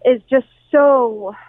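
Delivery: halting restarts on short words; real stuttering. Real, not acted. Reporter describing devastation to the radio host, stuttering. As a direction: falter and repeat, lost for words. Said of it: "I'm stuttering because".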